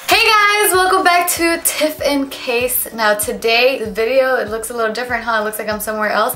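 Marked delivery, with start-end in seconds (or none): 0.1-2.9 excited greeting. Real, not acted. Vlog greeting.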